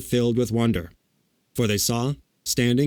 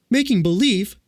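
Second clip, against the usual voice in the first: put-on high, loud girlish disbelief; astonished cry; 10 semitones higher, 5 dB louder than usual. A narrator's reading. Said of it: "cried Dorothy".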